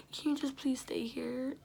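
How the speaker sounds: whispered plea. Retold or imitated. Retold plea to friend, whispered.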